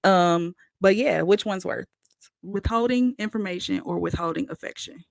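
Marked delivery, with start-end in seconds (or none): 2.4-5.0 tongue sticking to the roof; dry mouth. Real, not acted. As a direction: talk through a dry mouth. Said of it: "my tongue, it feel like it's stuck".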